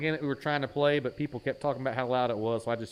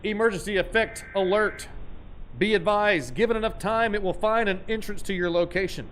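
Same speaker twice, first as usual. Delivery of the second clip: mock announcer; 4 semitones higher than usual. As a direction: read it like a playful emergency broadcast.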